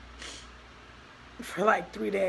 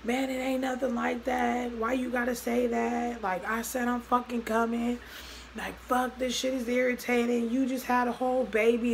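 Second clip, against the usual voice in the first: higher-pitched retold argument; exasperated protest; 4 semitones higher than usual. Boyfriend defends himself to his girlfriend on the phone, exasperated protest. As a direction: imitate a partner protesting, irritated.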